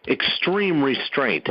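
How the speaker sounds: extreme restraint said slowly and deliberately; emphatic repeat. Real, not acted. Repeating it for the militia, deliberate emphatic extreme restraint. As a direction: give both words of extreme restraint slow weight. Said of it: "gonna repeat that a third time".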